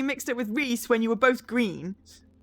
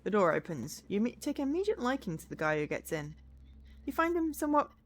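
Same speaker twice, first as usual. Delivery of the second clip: second-person game narration, clearly read; storyteller describing a new passenger; story narration; 3 semitones lower, 4 dB quieter than usual. A narrator's reading. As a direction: read the story aloud with gentle lift. Reads game story aloud.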